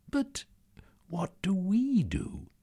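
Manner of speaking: high, slow worried whisper; anxious whisper. Acted. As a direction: ask in fear. Anxious question.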